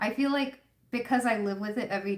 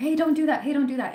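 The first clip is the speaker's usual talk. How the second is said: fast, fearful, high-pitched delivery; 6 semitones higher, 6 dB louder than usual. Explaining intuition, the speaker acts out a parent's warning, imitating a scared parent. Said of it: "you hear the fear in their voice".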